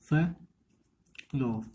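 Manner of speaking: फ्लोर drawn out very slowly, the r held at the end; stretched pronunciation. Shown as a demonstration. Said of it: "इस कैसे करोगे आप?".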